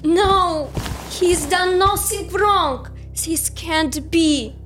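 high, drawn-out cry of disbelief; distraught protest. Acted. Follower objecting as soldiers arrest Andrew, distraught. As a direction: protest slowly in a high, anguished voice.

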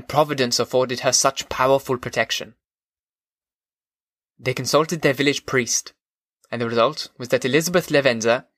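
story narration in a put-on German accent. Podcaster reading a classic novel to listeners, German accent. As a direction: read it aloud with your best German accent. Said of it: "read the book in my best German accent".

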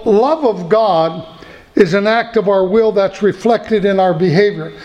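love of God drawn out very slowly, then steady; slow restatement. Shown as a demonstration. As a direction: spell it out slowly the second time. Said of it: "Let me say that again".

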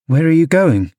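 high, insistent question; demanding. A narrator's reading. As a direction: demand an answer. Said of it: "demanded Catherine".

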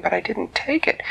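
put-on a little goblin boy defending himself; goblin boy's protest.

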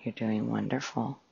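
measured meditation guide with long pauses; guided meditation. Acted. Host guiding listeners through a breathing exercise, calm meditation voice. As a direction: calmly guide listeners into relaxation, phrase by phrase.

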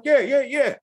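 high-pitched, laughing string of yeses; retold eager yes, breaking into laughter; eager agreement. Retells hastily agreeing to do accent.

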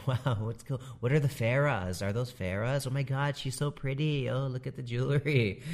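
mock gushing over every detail; playful imitation of starstruck guests; wowed wedding guests. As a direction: lightly parody an awestruck newcomer. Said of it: "they're always like".

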